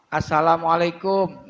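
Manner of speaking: Assalamualaikum said as salamualaikum; wrong dropped a-. Shown as a demonstration. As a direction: drop the opening as- and the doubling. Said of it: "Nah, itu salah". ("Assalamualaikum" diucapkan salamualaikum tanpa tasydid)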